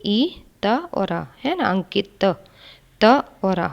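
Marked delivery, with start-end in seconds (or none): 0.1-1.2 slow spelling out. Shown as a demonstration. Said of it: "क पे हलंत".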